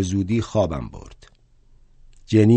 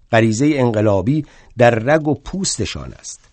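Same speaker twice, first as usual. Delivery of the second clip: raised, heated rebuttal; worked-up argument; 3 semitones higher than usual. Acted. Bakunin lecturing Marx, getting more and more excited. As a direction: fire back with rising excitement. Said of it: "خیلی هیجان زده شده بود".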